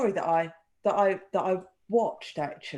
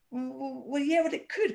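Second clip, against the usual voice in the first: soft, stumbling start of a reluctant admission; grudging, faltering mock concession; hesitant retelling; 3 semitones higher, 4 dB quieter than usual. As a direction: act out a witness backing down. Retold witness starts to doubt himself.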